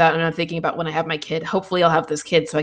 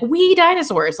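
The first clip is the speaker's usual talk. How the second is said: mock drunk glee; 9 semitones higher, slower than usual. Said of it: "just be like".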